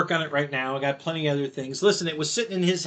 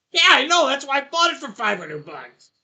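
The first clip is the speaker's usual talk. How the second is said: laughing reply; 8 semitones higher, 3 dB louder than usual. Retold or imitated. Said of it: "and she's like".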